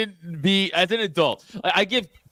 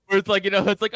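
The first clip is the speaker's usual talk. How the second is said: ordinary delivery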